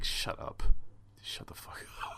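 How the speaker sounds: hushed, voiceless aside; whispered exasperation. Acted. Fed up with bragging volunteers, whispered under the breath. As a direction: whisper it as a suppressed private thought. Muttering his private reaction to braggarts.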